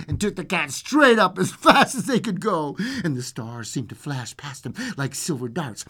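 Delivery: lively storyteller with swooping pitch; storybook reading, animated; fairy-tale narration. A narrator's reading. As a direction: tell a bedtime tale with suspense. Reads fairy tale aloud.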